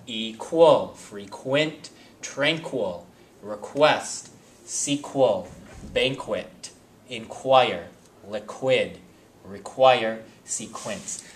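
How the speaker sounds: teacher sounding out the "kw" of each second syllable; exaggerated kw sound. Shown as a demonstration. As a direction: pull out the "kw" blend of "liquid" syllable by syllable. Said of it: "I'm doing it to emphasize the kwa".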